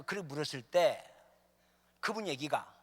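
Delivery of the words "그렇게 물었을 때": normal talking voice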